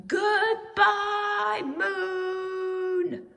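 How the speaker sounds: full-voiced shout into the night sky; shouting as loudly as he could. A narrator's reading. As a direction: call out from the hilltop with all your breath. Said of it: "He shouted as loudly as he could".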